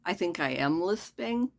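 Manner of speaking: audible lisp on the s; talking around new fake teeth. Real, not acted. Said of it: "That definitely was one".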